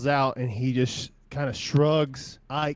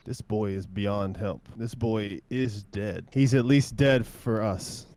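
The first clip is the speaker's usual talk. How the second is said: grave refusal; 2 semitones lower, 3 dB louder than usual. Acted. Winchester grimly refuses to help.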